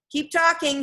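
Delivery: loud, pressing request; urgent call. A narrator's reading. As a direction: call out to keep contact. Calling to locate trapped sister.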